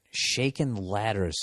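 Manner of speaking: put-on slow Boston accent. Host retrying the letter's odd phrase, Boston accent. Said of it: "even if in the accent".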